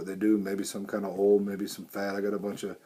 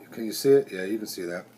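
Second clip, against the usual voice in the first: dust in mouth. Real, not acted. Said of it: "Sorry, I got a little dust in my mouth".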